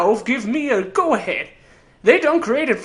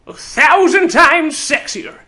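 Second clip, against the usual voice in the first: smug boast; 4 semitones higher, 4 dB louder, slower than usual. Acted. Boasting about himself.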